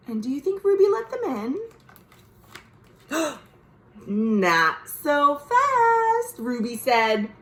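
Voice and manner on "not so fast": high, slow and firm refusal; stern not so fast. Acted. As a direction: hold them off, drawing it out. Ruby refusing her brothers.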